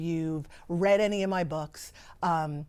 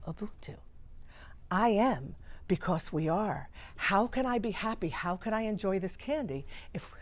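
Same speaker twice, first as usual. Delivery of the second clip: choked up; 5 dB quieter than usual. Real, not acted. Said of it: "I get a little emotional".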